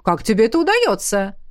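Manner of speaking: wondering question with rising swoop; surprised. Acted. Coach asking fast runner her secret, surprised. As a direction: ask in genuine wonder. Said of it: "удивился Рурк".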